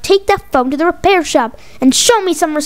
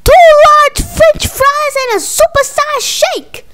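higher and louder, shouting the order down the line; shouted repeat; 11 semitones higher, 5 dB louder than usual. Acted. Mama shouts her order over a bad connection, much higher and louder. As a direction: yell it so they finally hear. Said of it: "I said".

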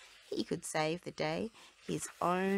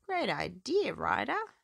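shout; 5 semitones higher, 5 dB louder, slower than usual. A narrator's reading. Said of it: "shouted Rubble".

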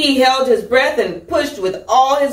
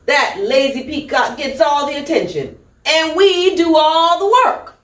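higher, fussy hen with a laugh; indignant hen; 6 semitones higher than usual. Acted. Hen griping that the peacock gets attention, higher. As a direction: squawk out the complaint. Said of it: "The hens were squawking".

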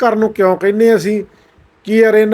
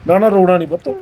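lower-key, tender reassurance; gentle consoling; 3 semitones lower, 3 dB quieter, much faster than usual. Real, not acted. Host to crying boy, gently consoling.

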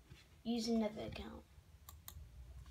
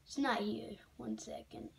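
whispered aside to self; whispering; 5 dB quieter than usual. Real, not acted. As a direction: drop to a whisper under the breath. Muttering to self at screen.

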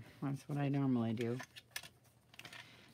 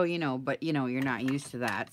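normal talking voice

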